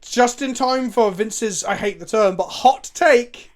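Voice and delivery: slow, loud, emphatic build-up; excited. Real, not acted. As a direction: drag it out for drama. Announcing controversial opinion.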